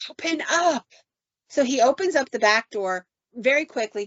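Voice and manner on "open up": high-pitched retold call to be let in; raised, insistent mock call; urgent demand. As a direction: imitate someone calling through a window. Wife pounding to get in.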